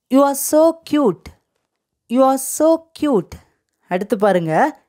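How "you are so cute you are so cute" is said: slow, measured teacher demonstration; slow model phrase. Shown as a demonstration. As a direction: say it slowly for learners to repeat. Teacher models English phrase to repeat.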